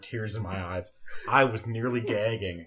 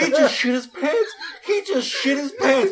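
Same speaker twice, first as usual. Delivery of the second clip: high, loud cackling yell; 9 dB louder than usual. Retold or imitated. Coworker cackles at the kid, high and loud. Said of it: "cackling at this point".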